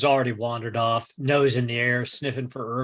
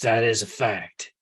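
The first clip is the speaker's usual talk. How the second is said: whisper. Acted. Dry aside about rescue.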